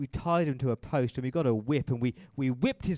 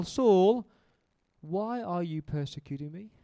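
higher and louder call, rising on Saul; voice from heaven; 4 semitones higher, 6 dB louder than usual. Retold or imitated. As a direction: call again, questioning. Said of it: "The voice said this".

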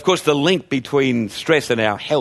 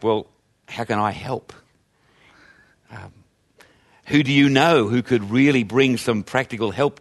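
caring response; 3 semitones lower than usual. Retold or imitated. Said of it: "a more appropriate response".

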